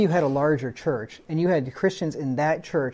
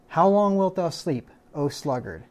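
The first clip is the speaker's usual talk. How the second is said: entreating appeal. Shown as a demonstration. Preacher pleading with a lazy man to rise, entreating. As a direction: beg the sluggard to wake up. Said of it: "Entreating him, appealing to him, lamenting".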